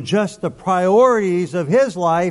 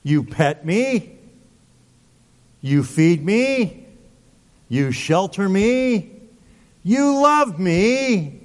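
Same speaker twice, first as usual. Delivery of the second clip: slow, drawn-out devotion, rising on love me; a grateful dog looking up in awe; slowed to a crawl on you must be God; adoring dog; much slower than usual. Pretend. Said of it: "A dog says".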